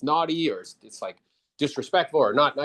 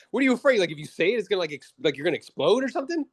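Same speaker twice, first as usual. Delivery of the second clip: higher, mildly teasing disbelief; mock incredulous question; 5 semitones higher, faster than usual. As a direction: tease him lightly for being afraid. Seller's retold mocking question.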